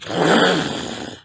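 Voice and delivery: unvoiced rush of flames; fire whoosh. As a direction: imitate flames bursting up. Imitating fire going up.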